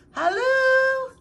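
high, loud faint-sounding call; distant trapped call; muffled from the pile. A narrator's reading. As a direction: call from under the junk. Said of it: "it seemed to be saying".

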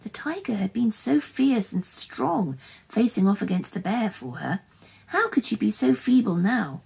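dramatic storyteller; story narration. A narrator's reading. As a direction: read the tense action out to children with punchy key words. Reads a story aloud.

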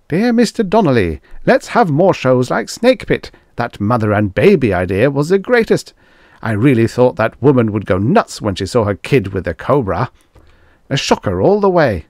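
high, loud, gleeful letter voice; thrill-loving fan. A narrator's reading. A ghoulish viewer praising the cobra show, gleeful. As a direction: savour every gory detail like a ghoulish fan.

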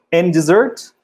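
dessert stressed on the second syllable, rising; dessert, tônica no fim; careful pronunciation. Shown as a demonstration. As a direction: say dessert as diZERT. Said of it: "Não vai confundir com desert".

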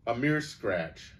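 slow, offhand lordly dismissal. Acted. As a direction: brush it off like a young prince, slowly. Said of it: "a rather lordly tone".

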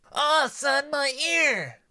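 high shrieking cry of pain. Acted. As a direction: scream out at the wound. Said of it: "Omelette cried out".

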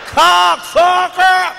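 high, loud, drawn-out white man's curse; white person cussing. Retold or imitated. Imitating a white driver cut off in traffic, drawn-out loud curse. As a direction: stretch it out like an outraged white driver. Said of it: "call you a cocksucker like a white person".

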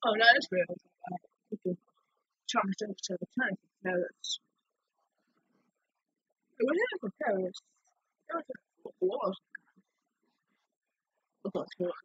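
very soft, barely voiced; faint voice after crying; quiet, spent. Real, not acted. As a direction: murmur it weakly, as if drained. Spent after breaking down in tears.

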